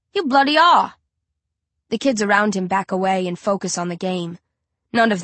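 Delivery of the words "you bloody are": high and loud, furious insistence; angry shout. Acted. Narrator insists Tyler is ignoring him, angry shout. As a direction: hurl the accusation back at him. Bully escalates the argument.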